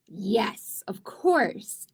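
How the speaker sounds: excited whisper; whispered thought. Acted. Trini whispering to herself as the castle idea comes.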